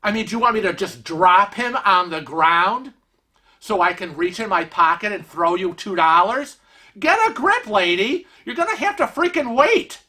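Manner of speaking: a mock outraged retort at the attendant; hammed-up indignation at being asked for money; exasperated outburst. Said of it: "Kevin's now is like".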